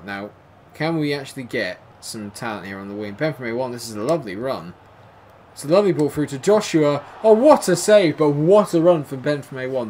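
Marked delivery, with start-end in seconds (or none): 5.5-9.9 high, loud thrilled call; excited commentary. Real, not acted. Calling the run and save, thrilled. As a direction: get swept up in the attack.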